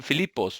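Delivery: "Filipos" with the final S sounded; Greek pronunciation. Shown as a demonstration. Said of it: "Filipos con la S al final".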